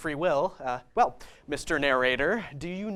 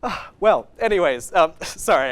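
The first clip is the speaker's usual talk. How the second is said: giddy; 7 dB louder than usual. Real, not acted. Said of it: "I'm all giddy now".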